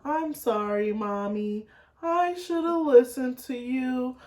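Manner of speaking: put-on slow, drawn-out little-girl apology; lightly voiced pleading child, dragging the words; imitating daughter. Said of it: "she'll be like".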